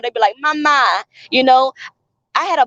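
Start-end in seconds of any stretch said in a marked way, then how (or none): 0.4-0.8 put-on mama said as mah-MAH with an open a at the end, African accent; imitating the kids' African-accented Mama. Mother imitating the kids calling her Mama in an African accent. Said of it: "a little African accent".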